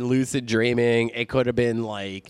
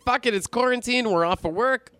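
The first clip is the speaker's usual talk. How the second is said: retold excitement; 13 semitones higher than usual. Retold excited plan to camp out.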